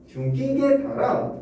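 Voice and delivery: 중기게 달아 drawn out slowly and pitched high; tonal reading. Shown as a demonstration. Teacher continuing the tonal demo for students, high and slow. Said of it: "어떻게 하면 될까?".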